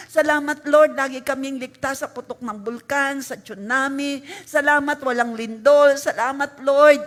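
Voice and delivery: loud, fervent prayer of faith; declared prayer. Shown as a demonstration. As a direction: proclaim it boldly to God. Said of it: "Sabihin natin". (malakas at matapang na pagpapahayag ng panalangin)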